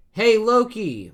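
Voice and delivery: loud, high, drawn-out call; shouting. Acted. Giant warrior pirate hails Loki, shouting. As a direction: shout it out slowly to get attention. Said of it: "one of them shouts".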